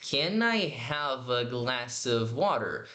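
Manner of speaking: very slow, careful linked question; slow teacher model; slow demo. Shown as a demonstration. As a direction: draw the question out slowly. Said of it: "eu tô juntando tudo aqui".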